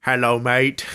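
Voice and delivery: lightly put-on Jamaican accent, easy and drawn out; Jamaican-accented hello, relaxed; mock Jamaican greeting. Friend greets the podcast as Throb Marley, light Jamaican accent. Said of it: "a Throb Marley appearance".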